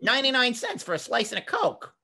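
mock Bugs Bunny-ish New Jersey boy; twelve-year-old Jersey kid. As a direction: imitate your twelve-year-old self inviting friends for pizza. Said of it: "my speaking voice when I was twelve was".

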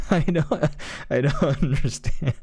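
breaking into laughter mid-sentence; laughing disbelief. Real, not acted. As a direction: laugh through the words in disbelief. Laughing at the absurd scene.

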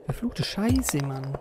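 soft muttered curse; cursing under breath. Real, not acted. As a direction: swear quietly to yourself. Fluchen beim Spielen. (leise fluchend)

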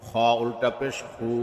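final "খু" held long; drawn-out vowel. Shown as a demonstration. Teacher demonstrating ulta pesh, long "খু". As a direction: stretch the last "খু" for one alif. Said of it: "একালিপ টেনে পড়তে".

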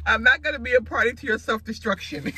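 loud, high, emphatic mock scolding; mock firm refusal. Son to dieting mom over a French fry, firmly refusing.

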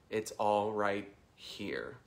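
slow mantra landing on "here"; pause, then set "here" apart with a long fall; "here" isolated and drawn out; stress on here. Shown as a demonstration. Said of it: "emphasize a different word".

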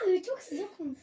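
words through a laugh. Real, not acted. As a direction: say it while still laughing. Laughing after spill. (gülerek)

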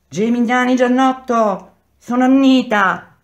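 loud, very high call; woman shouting. A narrator's reading. Fourth wife to her jailed husband, shouting. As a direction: cry the name out to the cells. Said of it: "gridò la quarta".

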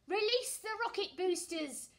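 loud, high shouted order; shouting. Acted. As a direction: call out the command. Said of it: "shouts Commander Mandy".

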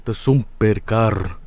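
slow, low mock Finnish accent. Streamer riffing on the game developer, mock Finnish accent. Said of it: "the Finnish accent".

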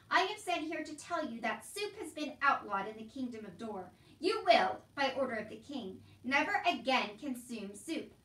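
formal, emphatic royal proclamation; officious soldier. Acted. King's soldier telling Uncle soup is outlawed, officious. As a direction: lay down the king's law.

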